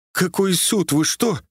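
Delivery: high-pitched alarmed pleading. A narrator's reading. Frightened motorist begs the sergeant not to take it to court, pleading. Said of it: "взмолился автолюбитель".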